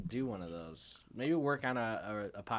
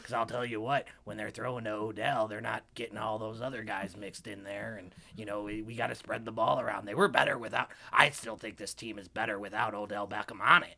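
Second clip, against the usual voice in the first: sports radio host. Acted. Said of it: "You're killing it".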